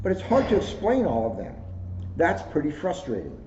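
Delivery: gentle storybook read-aloud; reading to children. Acted. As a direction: read it like story time for kids. Reads a kids' book aloud.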